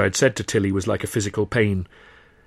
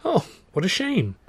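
gasped; 10 semitones higher than usual. A narrator's reading. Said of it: "Tilly gasped".

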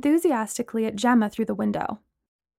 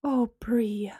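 consoling whisper; 5 dB quieter than usual. Acted. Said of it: "Gemma said consolingly".

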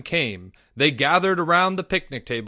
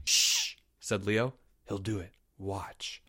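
hushed unvoiced whisper; 5 semitones lower, 7 dB quieter than usual. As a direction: hush them, barely a breath. Boys hushing around the kitten.

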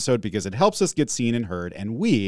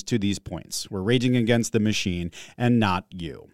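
rote affirmation. Shown as a demonstration. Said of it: "it sounds robotic because we say it".

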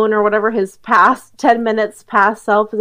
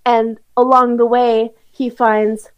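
trailer narration. Acted. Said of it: "your overview is like".

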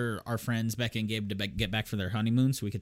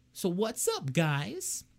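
imitating Gabe's greeting; 8 semitones higher, much slower than usual. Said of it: "that's always how he starts a conversation".

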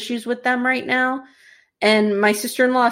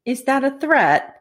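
higher challenge in an attempted British accent; lightly British, raised in pitch; 4 semitones higher than usual. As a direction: ask it with a rough stab at a British accent. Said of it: "wish I could do a British accent".

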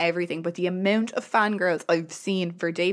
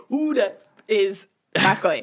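slow Dublin brogue; Conor McGregor impression; slower than usual. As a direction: do a cocky Irish fighter. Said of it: "as Conor McGregor would say".

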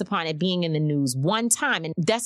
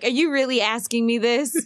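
incredulous question; 5 semitones higher than usual. Retold or imitated. Son's disbelief at mom.

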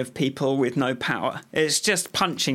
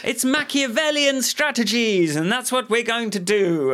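mock enthusiasm; 2 semitones higher than usual. Mocking the Tories' fake account.

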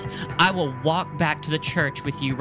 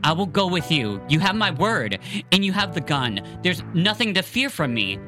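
reassuring Matthias; 5 semitones higher, 3 dB louder than usual. Acted.

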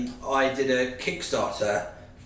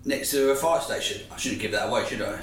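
recorded in an echoey room; 3 semitones higher than usual. Real, not acted. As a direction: sounds like a prison cell. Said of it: "I must apologise about the echoey".

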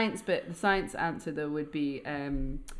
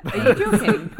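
high, loud and laughing; can't believe they'd reject it; laughing disbelief; 12 dB louder than usual. Real, not acted. Host protests that her title got rejected, a high loud laughing disbelief.

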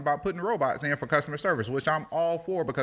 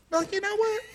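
customer voice. Acted. Customer voiced in robot skit.

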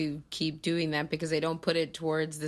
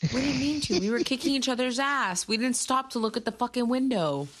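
mock apology; 7 semitones higher than usual. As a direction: whine the excuse like a cartoon fighter. Voicing fighters apologizing.

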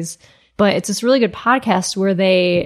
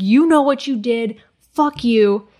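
retold fury; 3 semitones higher than usual. Retelling a girlfriend accusing her boyfriend, mildly furious. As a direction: lightly act out an indignant accusation. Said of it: "furious and was like".

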